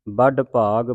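ਵੱਡ ਭਾਗ opening with b, badd; ਵੱਡ with lips closed on an initial b; b sound. Shown as a demonstration. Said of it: "ਬੱਬੇ ਦੇ ਨਾਲ".

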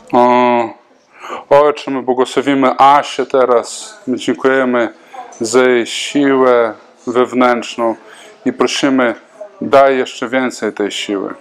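fervent spoken prayer, steady and earnest; spontaneous prayer. Acted. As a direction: pray aloud over her like a pastor. Pastor prays over a woman.

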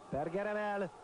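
high, climbing cry to the post; excited call. Real, not acted. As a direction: build to a near-miss. Commentator on a shot off the post.

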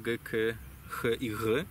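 "G, k, ch i g" said as separate sounds, each from the throat; throat consonants. Shown as a demonstration. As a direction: sound out "G, k, ch i g" one by one, gently. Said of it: "I tam powstają g-, gardłowe". (głoski gardłowe "G, k, ch i g" wymówione osobno)

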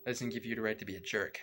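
rushed, fast clean-word version; quick cleaned-up retake. Shown as a demonstration. Reactor redoes the line for viewers, fast and clean. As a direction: hurry through the polite retake. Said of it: "How's that?".

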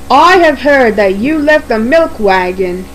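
stern, mildly cross character voice. Acted. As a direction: scold with restrained crossness. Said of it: "he said crossly".

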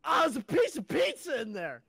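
high, loud grossed-out pizza find; really disgusted. Retold or imitated. Retelling the friend finding old pizza, disgusted. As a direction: sound truly grossed out. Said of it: "like, a really disgusted".

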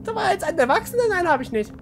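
put-on high-pitched young boy; high kid voice. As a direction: talk like an eager little boy.

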